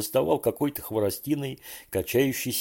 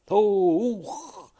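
startled cry; 11 semitones higher, 4 dB louder than usual. A narrator's reading. Boy falls into river.

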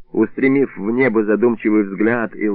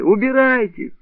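shrieking; 11 semitones higher, slower than usual. A narrator's reading. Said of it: "завизжала Бабаля".

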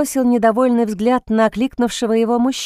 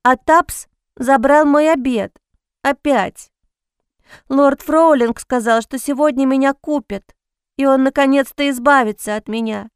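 put-on crying child; 4 semitones higher, 3 dB louder than usual.

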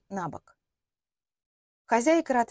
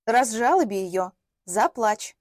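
voice in her head; 4 dB louder, slower than usual. Acted. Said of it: "зазвучал знакомый голос".

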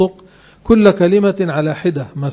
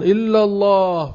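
higher, slow call of "إلا الله"; mimicking the pilgrim guide; 4 semitones higher, slower than usual. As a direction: lead the crowd with a drawn-out call. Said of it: "ثم يقولون". (تقليد المطوف ينادي "إلا الله" ببطء)

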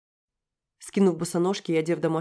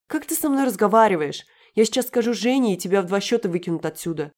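высокий громкий крик, к концу стихает; пригрози с визгом сверху вниз; визгливая угроза; 3 semitones higher, 7 dB louder than usual. Acted. Юля угрожает героине. (Юля визгливо грозит выгнать героиню)

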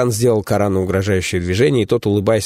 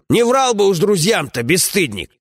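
a lightly raised, scolding comrade's voice; gruff dwarf companion; 11 semitones higher than usual. Acted. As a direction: grumble at a foolish friend, voiced a bit higher.

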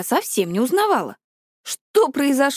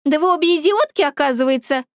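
furious outburst; 4 semitones higher than usual. Acted. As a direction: lash out at both girls. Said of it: "Лара стала похожа на фурию".

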